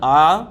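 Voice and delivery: आ said long with the mouth wide open; a broad, drawn-out आ. Shown as a demonstration. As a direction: open up and stretch आ. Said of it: "मुंह ज़्यादा खुल रहा है".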